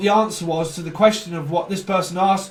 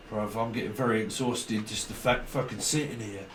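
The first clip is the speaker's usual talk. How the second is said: weary groan; 8 semitones lower, 9 dB quieter than usual. Retold or imitated. Weary aside.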